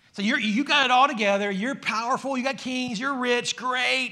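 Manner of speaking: loud, high-pitched, biting sarcasm laid on thick. Explaining a Bible passage, the speaker retells the apostle's sarcastic words. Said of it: "continues his sarcastic tone".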